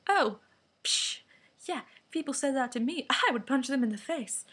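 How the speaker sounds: lightly mocked tough-guy bluster. Mocking online bullies who brag, lightly acted tough guy. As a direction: scoff like a would-be tough guy. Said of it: "be a tough guy".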